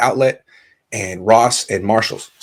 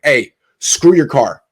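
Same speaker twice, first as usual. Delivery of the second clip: higher, louder taunt, half laughing; slow then high mock-divine taunt; mocking God; 6 semitones higher, 4 dB louder than usual. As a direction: jeer at him like a gloating God.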